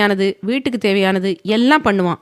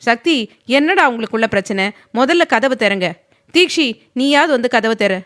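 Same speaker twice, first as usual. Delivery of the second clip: higher, raised call from outside; mildly shouted worried call; 4 semitones higher, 4 dB louder than usual. Acted. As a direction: shout through the closed door. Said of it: "வெளியிலிருந்து கத்தினார்".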